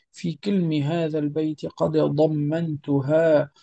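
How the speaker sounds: slow, measured singsong verse; verse recitation. Acted. Teacher reads the rules poem to students, measured chanting recitation. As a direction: recite the poem with drawn-out vowels.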